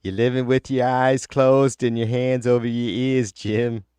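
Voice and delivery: mock Boston accent. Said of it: "fucked up Boston accent".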